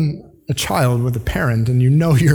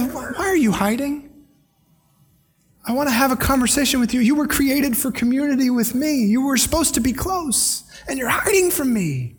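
compassionate God; 7 semitones higher, 4 dB quieter than usual. Retold or imitated. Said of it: "grace and compassion in God's voice".

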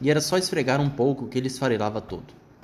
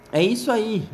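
high, excited shout; 8 semitones higher, 4 dB louder than usual. Acted. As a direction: cry it out in triumph. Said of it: "gritou seu raposo".

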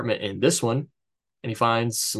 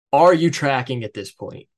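louder, higher, pointed question; aggressive; 4 semitones higher, 5 dB louder than usual. Real, not acted. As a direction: demand it, hard on the first word. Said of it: "I did kind of ask that aggressively".

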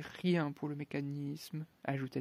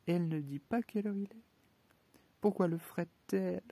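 higher, faster astonishment; surprised; 4 semitones higher than usual. Acted. Alice puzzling over the odd watch, amazed. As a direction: tumble out in disbelief.

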